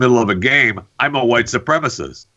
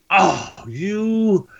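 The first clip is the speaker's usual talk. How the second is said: mock gamer insult; 11 semitones higher than usual. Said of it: "But if I say".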